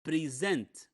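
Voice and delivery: slow teacher's model of present as pre-SENT; stress contrast demo. Shown as a demonstration. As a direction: present said slowly with weight on -SENT. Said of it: "It's not the same pronunciation".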